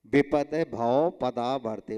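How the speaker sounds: विपद भव पदा बढ़ते in distinct word groups; recitation model. Shown as a demonstration. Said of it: "उच्चारण करवा दिया".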